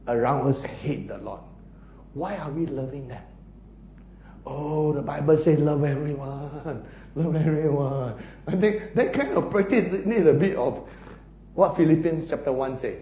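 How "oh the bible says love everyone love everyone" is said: mock pious objection. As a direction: parody a naive believer, stretching the words. Mimics a naive objection.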